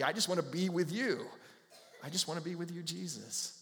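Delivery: softening to a near hush of longing; tender devotion. Pretend. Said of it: "more like Happy?".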